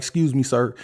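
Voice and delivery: a calm, courteous request to a line-cutter; polite excuse me. Pretend. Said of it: "you can be like".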